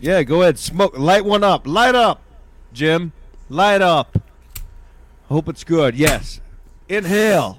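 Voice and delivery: high, loud goading; taunting. Real, not acted. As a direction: egg him on to light up. Taunting him to smoke.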